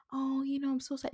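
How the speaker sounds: high, mock-sad imitation of a sympathizer; mock pity voice. Mocking friends who text her pity after her loss, high mock-sad voice. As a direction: pitch it up high and pour on fake pity. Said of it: "people will text me and be like".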